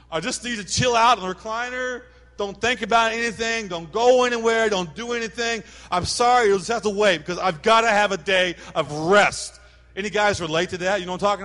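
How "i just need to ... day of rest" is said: lazy husband plea. Retold or imitated. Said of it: "guys are like".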